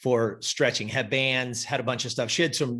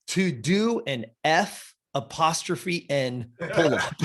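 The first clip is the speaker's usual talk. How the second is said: laughing; 2 semitones higher, slower than usual. Real, not acted. Reading her goal, laughing.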